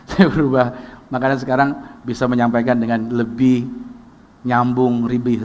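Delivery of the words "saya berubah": chuckling through the words; laughing. Real, not acted. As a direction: laugh it off as you admit it. Laughing admission of change. (sambil tertawa kecil)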